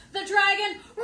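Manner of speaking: loud roaring shout; roared line. Acted. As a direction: roar it out. Roar in the story.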